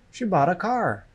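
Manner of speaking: "bought" and "car" stressed; teacher's model stressing "bought" and "car"; stress on content words. Shown as a demonstration. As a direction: punch "bought" and "car", keeping "She" and "a" light. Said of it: "The stress is on the content words".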